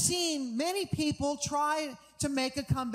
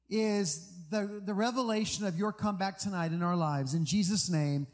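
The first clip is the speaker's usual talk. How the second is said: prayer; 2 semitones lower than usual. Real, not acted. Prays over the congregation.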